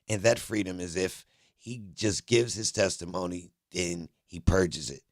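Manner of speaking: halting read-aloud of broken court dialogue; choppy transcript reading. Acted. Streamer reading the judge's exchange aloud, choppy and unfinished. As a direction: read each fragment as printed, pausing at the gaps. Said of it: "them chops ups I was just doing".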